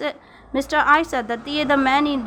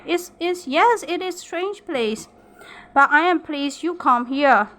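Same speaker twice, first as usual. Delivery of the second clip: kindly; 3 semitones higher than usual. Acted. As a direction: soothe Dorian gently, a touch hesitant. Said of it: "Bertha spoke kindly".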